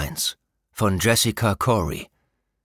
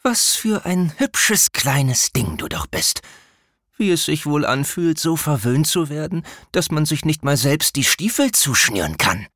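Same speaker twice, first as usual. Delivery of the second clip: mocking villain; 7 semitones higher than usual. A narrator's reading. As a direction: taunt him like a cruel predator. The Shadow mocks the prince. (höhnischer Bösewicht)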